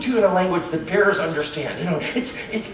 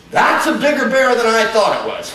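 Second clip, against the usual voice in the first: mock-surprised bear, a touch louder; impressed bear; 3 semitones higher, 5 dB louder than usual. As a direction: react as a bear caught off guard. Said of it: "Bear looks over and goes".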